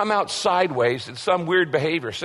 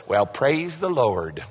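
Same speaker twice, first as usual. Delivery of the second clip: mock pious, slow and lower; fake piety; 4 semitones lower, slower than usual. Pastor mocking fake piety in tragedy, slow and lower. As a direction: drawl it like a hollow platitude. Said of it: "insincere. That's fake. That's phony".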